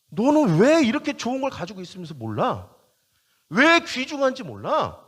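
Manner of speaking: acted scolding, pitch lifted; mock rebuke. Preacher acting out someone being reproached, mock rebuke. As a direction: scold them as if for not knowing. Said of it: "막 책망해".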